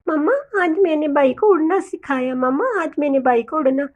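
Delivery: high first call, then eager chick; lightly voiced child showing off; boastful child bird. Little Dolly tells mamma about teaching flying, boastful.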